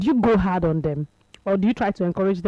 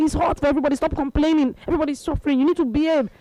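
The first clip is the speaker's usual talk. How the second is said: high, mock shouted scolding; retold shouting; 5 semitones higher, faster than usual. Wife tells husband to stop complaining, mock shouting. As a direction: imitate a wife yelling at her husband. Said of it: "she kept, she kept shouting".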